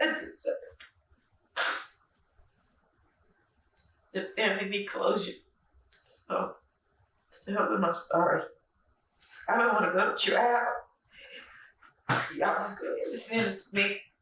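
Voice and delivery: loud tearful speech, crying through the words. Confessing and asking to be sentenced, crying while talking. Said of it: "I'm not crying because I'm scared".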